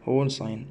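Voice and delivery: هول said softly as "hole" with long o; quiet model of هول ساين; demo pronunciation. Shown as a demonstration. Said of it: "ننطق كده".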